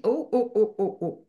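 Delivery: amazed oh oh. Retold or imitated. Overwhelmed by revelation.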